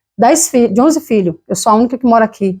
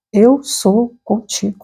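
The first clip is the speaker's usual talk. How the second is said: voice of God; much slower than usual. Retold or imitated. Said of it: "eu escuto uma voz claramente".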